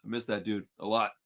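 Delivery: real grief breaking through the story; choked up. Real, not acted. To the host, missing his late friend Frankie, choked up. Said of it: "I'm gonna start crying 'cause Frankie's gone".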